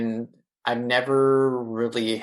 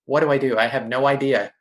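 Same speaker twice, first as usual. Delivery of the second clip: retold screaming; 2 semitones higher, 4 dB louder, faster than usual. Answering his friend's cries for help, a moderate retold panicked shout. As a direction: shout it back in remembered panic, holding back from full volume. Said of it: "I'm just screaming back".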